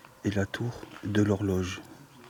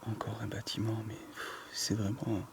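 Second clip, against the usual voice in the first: whispering; 6 dB quieter than usual. Real, not acted. Hushed comment on ruins.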